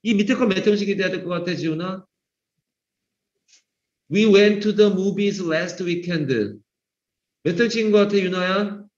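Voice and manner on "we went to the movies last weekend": very slow, deliberate English reading; slow example reading. Shown as a demonstration. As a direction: read the sentence out slowly for the class. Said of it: "teacher reads example sentence".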